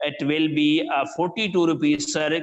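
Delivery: drawn-out price; slow careful answer. Retold or imitated. Tailor eases the price out to the customer slowly. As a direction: ease the number out slowly. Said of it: "میں سلو سلو کر کے بتایا".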